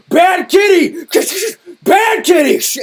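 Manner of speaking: high, loud mock scolding shout; retold professor shouting at a student, slow on the second; yelling. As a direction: scold like spraying a cat, laughing through it. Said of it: "and yells".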